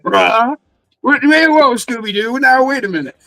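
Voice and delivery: high-pitched, stammering double take; playful incredulous owner; mock astonishment. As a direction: act floored by a talking dog. Acting stunned owner of talking dog.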